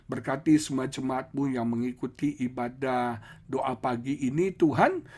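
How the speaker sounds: steady, earnest prayer voice. Acted. Pastor closing the service, praying for the congregation, earnest.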